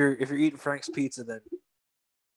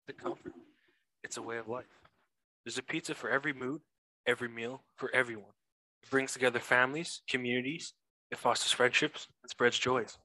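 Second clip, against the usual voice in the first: ad read; 2 semitones lower than usual. Acted. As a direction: read it like a cheesy radio ad. Reads a pizza ad aloud.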